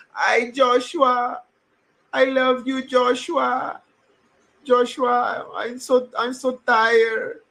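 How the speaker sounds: high, slow Costa Rican grandma voice with a little laugh; Costa Rican grandma accent. Retold or imitated. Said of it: "That's how my grandma talks".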